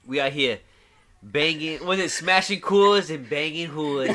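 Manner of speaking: a hint of Mark Wahlberg's Boston drawl; a light Boston accent for a beer slogan. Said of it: "his best Mark Wahlberg impersonation".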